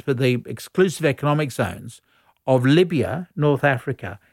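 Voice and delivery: speaking with a hand over the mic; muffled, as if the mic is covered. Real, not acted. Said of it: "You're covering your mic there".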